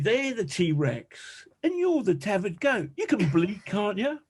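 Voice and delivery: high, teasing Essex voice for Sarah; Essex accent. Retold or imitated. Sarah, from Essex, telling John he's the tethered goat, in an Essex accent. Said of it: "She's from Essex".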